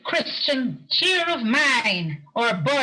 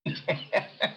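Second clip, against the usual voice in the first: polite chuckle; 6 dB quieter than usual. Acted. Collector laughs at Scrooge's answer.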